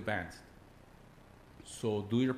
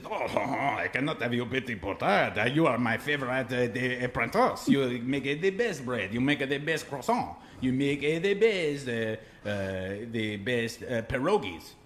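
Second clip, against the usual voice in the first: louder, hammed-up French boss voice; mock French accent; 3 dB louder than usual. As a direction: praise the apprentice in a put-on French accent. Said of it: "I'll tell it in his voice".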